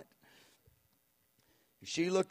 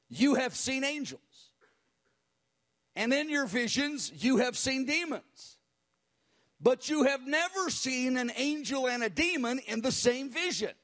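much higher, fiery prophetic declaration; zealous prayer; 6 semitones higher, 3 dB louder than usual. Retold or imitated. Tiny elderly woman prophesying into the microphone with zeal. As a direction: proclaim it with fire. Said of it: "she had a voice".

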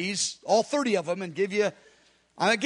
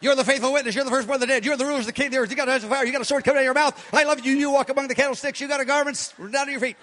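prayerful address to Jesus; much faster than usual. Shown as a demonstration. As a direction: speak straight to Jesus, lightly fervent. Prays aloud to Jesus in a demo.

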